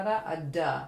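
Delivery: "duh" with a soft voiced d, not an aspirated "tuh". Shown as a demonstration. Teacher contrasting "duh" with "tuh" for tonguing. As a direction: say "duh" gently, no puff of air. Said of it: "not a tuh".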